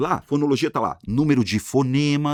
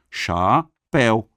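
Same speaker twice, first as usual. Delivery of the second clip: "chapéu" slow and split, slightly raised in volume; syllable by syllable; 4 dB louder, much slower than usual. Shown as a demonstration. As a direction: pause between CHA and PÉU in "chapéu". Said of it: "ditongo são duas".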